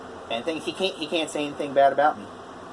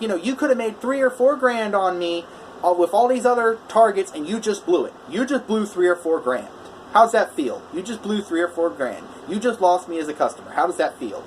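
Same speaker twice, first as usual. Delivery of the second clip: mock angry customer; 4 semitones higher than usual. Angry customer berates contractor.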